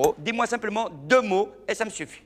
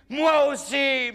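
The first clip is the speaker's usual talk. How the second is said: slow, higher, shy reply; murmured; 6 semitones higher, much slower than usual. Acted. Shy Mohamed answering his girlfriend, slow and timid. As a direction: answer shyly and slowly. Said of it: "murmura-t-il".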